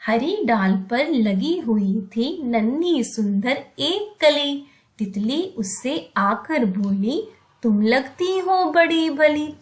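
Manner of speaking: put-on slow, expressive poem reading for children; teacher showing voice modulation on a poem; voice-modulated recitation. Shown as a demonstration. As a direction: let the voice rise and fall with the story. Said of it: "voice modulation का आप किस तरह से use कर सकते हैं".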